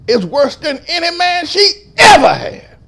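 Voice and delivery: high, loud preaching cry; shouted denunciation. Real, not acted. Pastor denouncing Junior to congregation, shouted denunciation.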